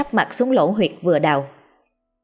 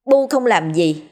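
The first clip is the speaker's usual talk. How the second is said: cãi lý; 6 semitones higher than usual. Acted. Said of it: "Trầm cãi lý".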